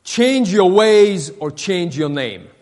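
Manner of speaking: slow, weighty mock command; stern. Napoleon warning the young deserter, stern and slow. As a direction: deliver a measured warning as a stern general. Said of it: "looked at him sternly and said".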